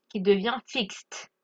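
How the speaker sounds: "fixed" said slowly, ending on a crisp fikst. Shown as a demonstration. Teacher slowly models "fixed" with its T ending. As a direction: draw out "fixed" with a clean final T sound. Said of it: "on va prononcer T".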